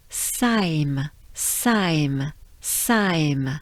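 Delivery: Saim low with a nasal ending; French saim. Shown as a demonstration. Teacher drilling the end of Rosheim. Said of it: "It starts with a R".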